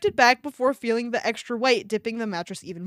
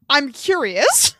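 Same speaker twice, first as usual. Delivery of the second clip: character line; 2 semitones higher, 4 dB louder, slower than usual. Acted. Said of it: "He spoke again".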